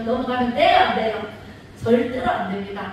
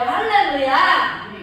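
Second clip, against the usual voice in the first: hallelujah cry; 3 semitones higher, 5 dB louder, slower than usual. Real, not acted. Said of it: "preacher's exclamation".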